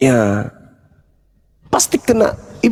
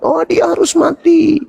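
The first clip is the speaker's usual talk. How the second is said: mock insistence, pitched up high; insisting; 9 semitones higher than usual. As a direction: imitate someone stubbornly insisting. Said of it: "kalian itu ngotot". (ngotot, menirukan orang bersikeras)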